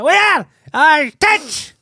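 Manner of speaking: very high, loud yelp; hammed-up cry of alarm; mock panicked shout. A junkie reacting to the dog alarm, shouting in mock panic. Acts out panicked bystander in story.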